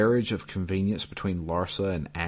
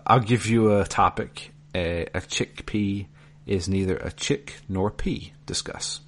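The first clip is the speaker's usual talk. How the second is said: put-on Mike Myers Jewish lady accent. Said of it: "my best Mike Myers middle-aged Jewish lady accent".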